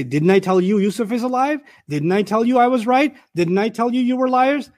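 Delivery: smug vindicated father; gloating told-you-so. Shown as a demonstration. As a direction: rub their noses in being wrong. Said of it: "None of that".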